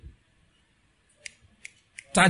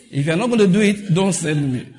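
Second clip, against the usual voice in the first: laughing, louder Jonah; 3 semitones higher, 6 dB louder than usual. Retold or imitated. Jonah bargaining with God, laughing.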